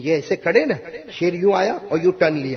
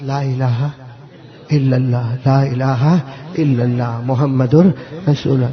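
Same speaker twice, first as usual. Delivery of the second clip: slow prayerful recitation; 5 semitones lower, slower than usual. Acted. Dying man recites the kalima.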